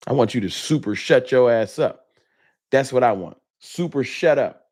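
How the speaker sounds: irritated, punched key words; real annoyance; pissed off. Real, not acted. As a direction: tell them off, fed up. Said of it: "Pissed me off".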